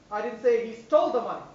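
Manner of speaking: "stole" stressed. Shown as a demonstration. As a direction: hit "stole". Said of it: "stress on each word".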